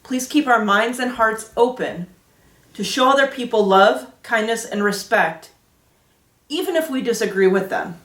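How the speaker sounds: earnest prayer voice with long pauses. Acted. Teacher leading the children in prayer, prayerful tone. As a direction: pray aloud for the group, unhurried between phrases.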